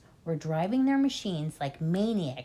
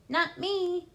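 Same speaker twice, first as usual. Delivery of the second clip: scream; 11 semitones higher than usual. Acted. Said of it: "screamed Bunce".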